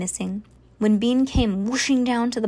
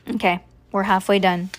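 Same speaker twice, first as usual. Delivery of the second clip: usual speaking voice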